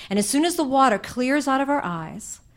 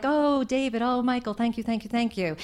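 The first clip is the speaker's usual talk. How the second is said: fake sweet. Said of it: "start fake smiling and trying to act all normal".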